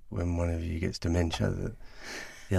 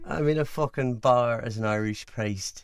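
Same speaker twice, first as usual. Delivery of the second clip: a light Irish lilt; sing-song Irish priest voice, half in jest; lightly put-on Irish accent; 4 semitones higher than usual. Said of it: "Keep going with your Irish accent".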